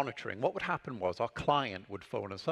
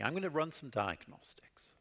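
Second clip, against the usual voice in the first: hushed whisper to the client; 5 dB quieter than usual. Retold or imitated. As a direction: whisper it like a secret stalling trick. Pretending to run checks for client.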